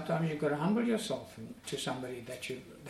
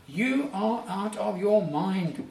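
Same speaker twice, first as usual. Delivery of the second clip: loud, slow outburst at Paul, higher; shouted accusation; 5 semitones higher, 6 dB louder, slower than usual. Acted. Festus shouting at Paul during his defense, loud. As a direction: shout him down as if he's lost his mind. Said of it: "he shouted".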